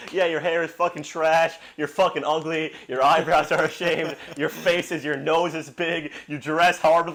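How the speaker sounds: hammed-up scorn, building; imitated roasting. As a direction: pile on insults as the imitated barber. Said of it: "roasting the old guy who cut your hair".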